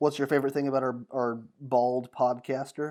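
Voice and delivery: ordinary talk, nothing marked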